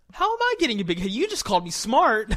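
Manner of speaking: fast, high, loud protest; amused indignation. Real, not acted. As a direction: protest loudly on the edge of laughter. Protests grandmother's teasing, laughing.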